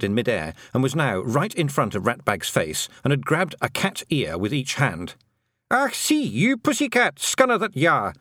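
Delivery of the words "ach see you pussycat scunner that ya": high, louder Scottish feagle yell. Acted. Feagle gripping the cat's ears, high Scottish yell. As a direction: shout it in the cat's face. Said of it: "he yelled".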